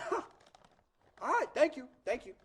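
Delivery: put-on thick Boston accent. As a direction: thank them as a Boston kid. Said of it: "talks with a thick Boston accent".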